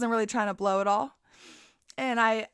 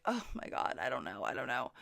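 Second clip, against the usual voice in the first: whispered, much softer; panicked whisper; 9 semitones lower, 10 dB quieter than usual. Retold or imitated. To drunk Davis, a flustered whisper about picking a number. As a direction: breathe it out in a flustered hush.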